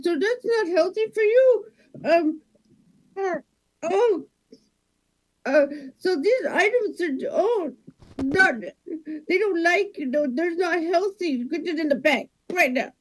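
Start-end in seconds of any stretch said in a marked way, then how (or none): 0.0-7.3 higher pinched cashier line; wedgie. Acted. Cashier enduring a wedgie, higher strained voice. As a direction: squeeze it out as if wedgied. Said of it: "someone's giving you a wedgie".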